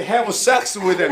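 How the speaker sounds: slow, deliberate "have sex with them" with "sex" stressed; read bluntly. Shown as a demonstration. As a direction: spell it out bluntly, word by word. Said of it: "그냥 적나라하게". ("have sex with them"을 아주 느리게 또박또박)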